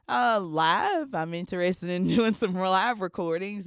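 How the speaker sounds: lifted voice for a quoted reply; quoting own keen reply. Retold or imitated. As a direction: pipe up with interest, retelling it. Quoting own answer to Dennis.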